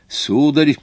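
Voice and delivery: offended. A narrator's reading. Watchmaker taken for a joker objects, offended. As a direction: object as if mildly insulted. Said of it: "крайне оскорблённый тем".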